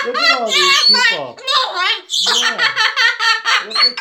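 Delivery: squeaky high laugh through the words. Real, not acted. Amazed by many viewers.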